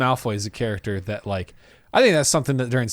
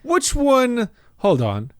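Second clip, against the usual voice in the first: flustered; 4 semitones higher, slower than usual. Acted. Acting out a confused Yates.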